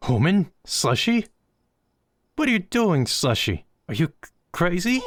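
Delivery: a small ghost jumping at an intruder; startled little ghost. Acted. Boogie the ghost yelps at Slushy bringing a human.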